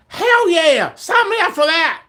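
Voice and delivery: high, gung-ho holler; excited cheer. Real, not acted. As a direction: shout yes like an eager volunteer. Answers own question with enthusiasm.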